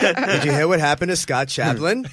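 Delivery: lightly mimicked voice with a laugh; Matt Maron. Comic mimicking Matt warning Lewis, light impression. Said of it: "Matt Maron impressions".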